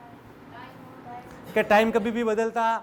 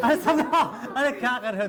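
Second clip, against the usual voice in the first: laughing; 3 semitones higher, 4 dB louder than usual. Real, not acted. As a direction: laugh while being squeezed. Students squeeze teacher, he laughs. (हँसते हुए ज़ोर से)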